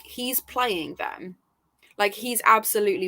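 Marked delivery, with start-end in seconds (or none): 0.0-1.4 slow and soft, darkly knowing; hushed slow warning; ominous suspicion. Retold or imitated. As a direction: let it sink in quietly, as a dark revelation. Reader suspecting corrupted character.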